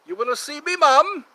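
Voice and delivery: loud high call across the house; calling to mum. Real, not acted. Son calling his mum for the reveal, loud high call. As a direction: call out to her in the next room.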